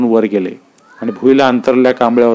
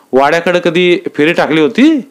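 higher village voices; rustic dialogue; 5 semitones higher than usual. Acted. Villagers discuss the land, higher rustic voices. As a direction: trade gossip plainly. Uddhav Nana asks.

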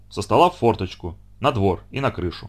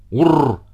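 angry cat growl; 4 dB louder than usual. Acted. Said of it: "рассердился на бочку".

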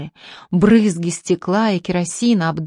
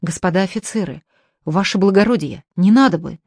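pleading. Acted. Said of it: "стал молить".

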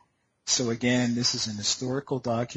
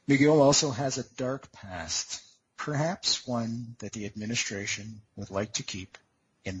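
clickbait video narrator. Acted. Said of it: "I'm gonna read you this whole chapter".

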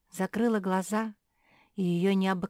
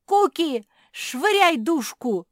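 much higher, louder, slow yelled command; urgent shout; 9 semitones higher, 10 dB louder, slower than usual. Acted. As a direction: yell the order across. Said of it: "закричала Жози". (громкий крик)

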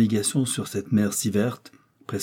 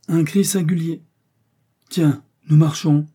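higher, surprised outburst; startled exclamation; 7 semitones higher, 5 dB louder than usual. A narrator's reading. Balloon travellers feel themselves suddenly moving, startled exclamation.

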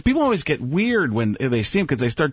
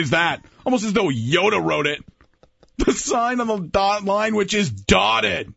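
John Madden impression; 5 semitones higher than usual. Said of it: "John Madden doing the Alec Baldwin".

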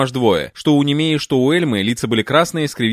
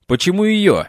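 snake hiss; 7 semitones higher than usual. Acted. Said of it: "зашипела змеёй Пенелопа".

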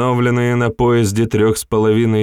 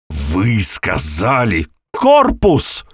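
interrupting retort; much slower than usual. A narrator's reading. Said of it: "перебил его генерал".

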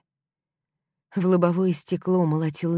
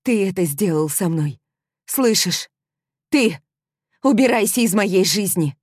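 furious scream; 4 semitones higher, 6 dB louder than usual. Acted. Heroine screams at her betrayer.

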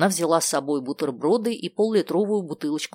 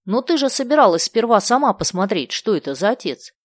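surprised; 6 semitones higher, 4 dB louder than usual. A narrator's reading. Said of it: "удивлённо проговорила Варвара".

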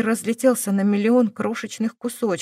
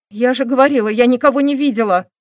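insistent outburst; 3 semitones higher, 6 dB louder than usual. Acted. Girl snaps under repeated questioning.

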